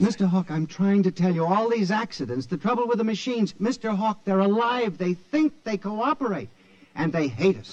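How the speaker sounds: frantic warning about the machines; agitated pleading. Acted. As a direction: press him, desperate to be believed. Pleads that machines are alive.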